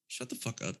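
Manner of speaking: very soft, restrained telling-off; hushed, no-nonsense dismissal; means business. Acted. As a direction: keep it quiet and dead serious. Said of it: "I mean business".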